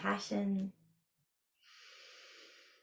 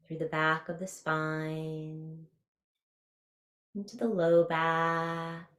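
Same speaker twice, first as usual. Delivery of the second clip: guided meditation. Real, not acted. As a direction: ease them through a body scan, stretching key words.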